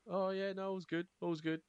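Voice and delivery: fake cheery. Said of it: "then it's like".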